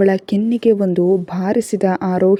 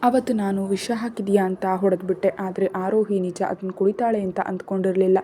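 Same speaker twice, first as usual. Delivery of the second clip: much softer, grieving narration; hushed sorrow; 6 dB quieter than usual. A narrator's reading. Son confessing guilt to mother, softly grieving. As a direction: let the guilt sink in quietly.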